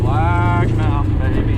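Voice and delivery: excited. Real, not acted. Celebrating reaching the summit.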